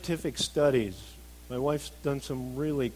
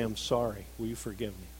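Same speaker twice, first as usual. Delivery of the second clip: token apology; 5 semitones lower than usual. Retold or imitated. Husband to wife after something stupid, token apology. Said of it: "I'd do something stupid, and I'd go to my wife and say".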